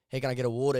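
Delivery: WATER said the South African way, "WAW-tuh"; South African accent. Shown as a demonstration. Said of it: "speak like this ... instead of".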